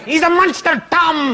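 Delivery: a hammed-up Brad Pitt Irish accent. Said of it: "saying it in a Brad Pitt Irish accent".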